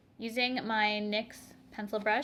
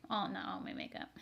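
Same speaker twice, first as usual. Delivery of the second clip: whispered aside; 6 dB quieter than usual. Real, not acted. Correcting herself in aside.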